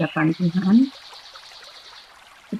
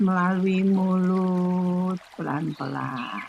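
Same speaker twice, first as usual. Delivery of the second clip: guided meditation. Acted. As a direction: ease the listeners into stillness. Leads breathing and meditation.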